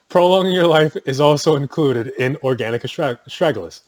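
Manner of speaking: amused repeat of the pitch; laughing. Shown as a demonstration. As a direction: laugh through a mock sales line. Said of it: "Sounds like an infomercial".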